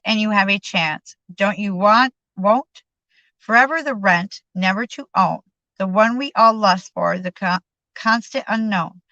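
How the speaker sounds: measured poem recitation with pauses; poem reading. Acted. Reading Don's little Hollywood poem, measured poetic delivery. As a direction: let each line land like verse.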